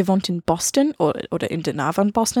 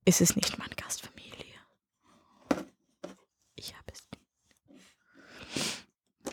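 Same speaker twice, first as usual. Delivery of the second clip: whisper; 13 dB quieter, faster than usual. Real, not acted. Joking aside about host family.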